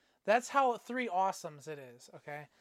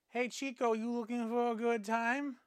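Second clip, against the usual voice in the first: flirty woman voice; 5 semitones higher than usual. Retold or imitated. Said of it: "And she's like".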